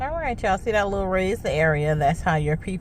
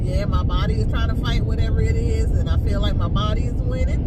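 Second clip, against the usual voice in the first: congested; 2 semitones higher than usual. Real, not acted. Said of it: "even though I sound like this".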